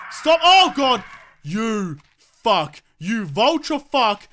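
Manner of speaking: real angry panic at an attacking bird; yelling at a vulture. Real, not acted. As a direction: shout it off like it's pecking you.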